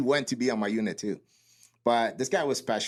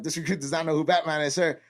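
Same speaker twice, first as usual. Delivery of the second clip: raised, formal answer to a superior; recruit reporting; 5 semitones higher than usual. Retold or imitated. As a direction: report up to the instructor, pitched higher. Recruit answers drill instructor.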